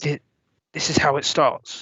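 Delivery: soft, hushed whisper. Game narrator voicing a stiffening woman at a player's side, whispering. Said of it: "as she whispers".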